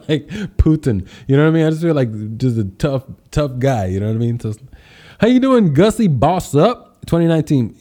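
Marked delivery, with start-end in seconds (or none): 5.2-7.8 loud, high energetic greeting; hype shout-out. Real, not acted. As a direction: pump up the greeting.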